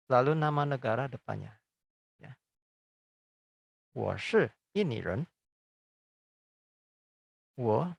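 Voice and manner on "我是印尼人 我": 我是印尼人 very slow, 我 held long; slow Mandarin demo. Shown as a demonstration. Teacher to Indonesian students, modelling 我是印尼人 very slowly. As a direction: drag out 我 to show it to learners. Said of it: "example sentence".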